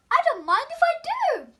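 gleeful and hungry; the wolf delighted by biscuits; pleased wolf. Acted.

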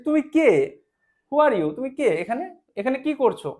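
a little flea demanding answers; a lightly voiced flea questioning the mosquito; flea asking. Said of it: "কে বললো? ফ্লিটা বললো".

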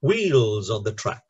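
WHEELS on the TRACK; stress on wheels and track. Shown as a demonstration. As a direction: hit Wheels and track, lighter on the middle. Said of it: "the first syllable, wheels, is stressed".

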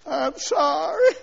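slow, wailing mock apology; mock sorry plea. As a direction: beg like a caught child. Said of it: "Then you say".

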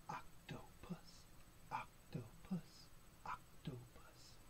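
slow, soft OC-TO-PUS in separate beats; hushed syllables. Pretend. Reader prompts children to say octopus, slow hushed chant.

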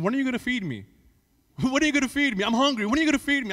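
mock whiny hungry child; lightly voiced child nagging; imitating daughter. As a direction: whine for food like a small kid. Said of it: "all my daughter was saying".

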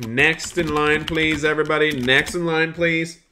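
bright counter-clerk call; calling next customer. Acted. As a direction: call out to the line like a shopkeeper. Serving customers at the truck.

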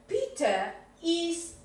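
teacher dictating a sentence slowly; slow model sentence. Shown as a demonstration. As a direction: spell it out slowly for the student. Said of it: "Eso sería una oración afirmativa".

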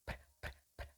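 pr, pr, pr voiceless lip trill with no vowel; lips buzzing. Shown as a demonstration. Coach showing the lip trill. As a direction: blow pr pr through the lips. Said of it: "birbirine çarpıyor dudaklar".

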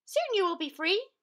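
high, gentle mouse voice; calm the big lion down; reassuring mouse. Acted. Mouse soothing the netted lion, high and gentle.

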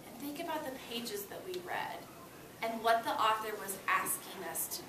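hushed prompt to think; whisper. Real, not acted. Teacher whispering a thinking prompt to her students.

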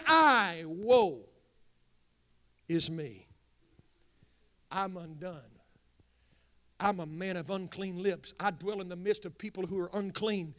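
a hint of a broken prophet; lament. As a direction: sink into Isaiah's grief. Quiet voicing of Isaiah's lament.

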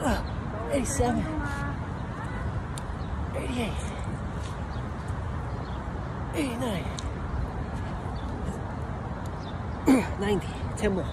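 breathless final reps; doing push ups. Real, not acted. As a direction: squeeze out each count, exhausted.

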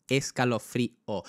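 escalofrío in slow beats, first E stressed. Shown as a demonstration. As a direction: beat out escalofrío slowly from a stressed E. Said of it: "el acento ahí va en la E". (escalofrío marcado despacio, con acento en la e)

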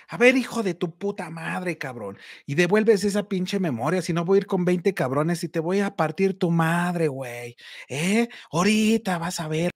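retold threat with a mild angry edge, not really shouted; mock cursing out the thief; furious cursing. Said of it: "yo emputadísimo".

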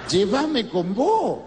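slow, stretched-out plea; hammed-up graveside lament; mock wailing widow. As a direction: drag out a tearful plea at the coffin. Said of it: "Lloraba la vieja".

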